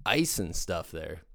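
mock-patient sarcasm at the students; sarcastic. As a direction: tease them for missing the obvious. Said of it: "I'm like".

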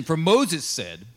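slow, weighty "For Moses said"; slow reading. Shown as a demonstration. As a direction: draw out "For Moses said" word by word. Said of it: "Verse ten".

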